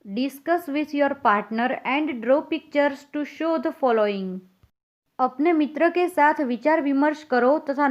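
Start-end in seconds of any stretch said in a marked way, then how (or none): 0.1-4.4 very slow, evenly spaced English read to pupils; slow dictation reading. Acted. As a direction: read it word by word so children can follow. Teacher reads task slowly.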